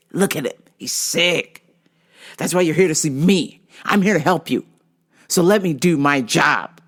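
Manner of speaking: imitating a rude man's sarcastic rebuke; mock scornful. Rude practitioner telling off a client, lightly scornful.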